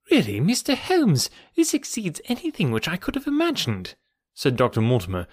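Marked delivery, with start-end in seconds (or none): 0.1-4.0 amazed. A narrator's reading. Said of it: "gazing at my friend in amazement".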